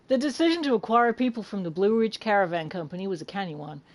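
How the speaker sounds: attempted American accent reading; British speaker trying an American accent. Shown as a demonstration. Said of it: "shall I do this in an American accent".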